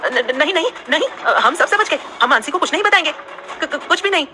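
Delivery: high, stuttering panicked promise; frightened stammer. A narrator's reading. Tanu stammering her promise to Saksham. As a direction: babble yes in terror. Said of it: "जल्दी से अपनी गर्दन पूरी तरह से हिलाते हुए".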